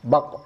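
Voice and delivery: "bak" ending in a bouncing qaf; "bak" with the tongue root lifted for the final q; contoh qaf sukun. Shown as a demonstration. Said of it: "Contohnya begini". ("bak" dengan pangkal lidah diangkat)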